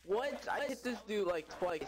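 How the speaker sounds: sudden disbelieving outburst; surprised. Real, not acted. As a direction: caught off guard, voice jumping up. Attacks not registering on enemy.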